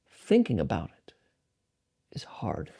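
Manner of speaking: trailing down to a soft whisper on "hard"; hushed punchline. Acted. Senior monk advising Ajahn Brahm, softly fading to a whisper. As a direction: drop to a near whisper, letting "is hard" fade. Monk's quiet wisdom line.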